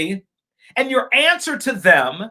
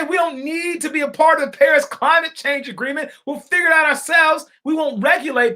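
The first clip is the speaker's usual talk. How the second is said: mocking quote; 5 semitones higher than usual. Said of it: "how do you say".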